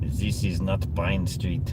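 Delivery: slow mock French accent. Lost driver hunting for Pine Street, playful French accent. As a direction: put on a French accent, drawn out slowly. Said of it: "I'm still speaking in my French accent".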